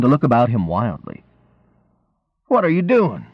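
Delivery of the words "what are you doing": high-pitched mock indignation; playfully offended protest; mock indignant. A narrator's reading. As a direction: pretend to be affronted. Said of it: "the man said in mock indignity".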